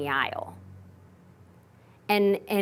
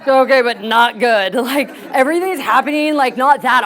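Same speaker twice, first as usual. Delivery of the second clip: laughing; 3 semitones higher, 8 dB louder than usual. Retold or imitated. Friend's reply, laughing retold.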